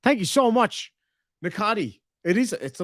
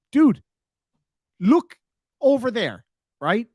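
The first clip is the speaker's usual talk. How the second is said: mock dude voice; 7 semitones higher, slower than usual. Mocking chatter's idea of manliness.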